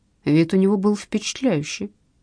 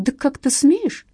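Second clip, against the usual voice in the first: slow, raised pitch cry; loud cry; 7 semitones higher, slower than usual. A narrator's reading. Husband lunging at the detective, slow high mock cry. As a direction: roar at the detective. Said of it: "с громким криком".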